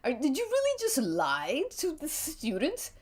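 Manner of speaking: put-on a touch of a prissy old queen; huffy, theatrical disdain; lightly voiced fussy host. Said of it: "an old queen kind of voice".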